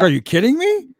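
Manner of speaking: high, loud, stunned disbelief; high, loud mock shock. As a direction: squeal it in shock. Retold disbelief at the reveal.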